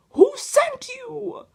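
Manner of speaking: drawn-out loud challenge. Real, not acted. Confronting the tapping bird.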